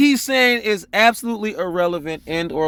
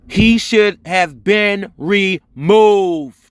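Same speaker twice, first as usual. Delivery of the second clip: very slow, word by word, "removed" stretched out; emphatic; much slower than usual. Real, not acted. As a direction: space out every word and punch "removed". Emphatic verdict on the defendant.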